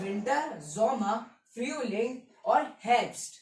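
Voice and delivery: विंटर, ज़ोमा, फ्यूलिंग in German, word by word; measured drill from विंटर to हेrbst, pausing between words; German season recitation. Shown as a demonstration. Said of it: "revise कर लेते हैं".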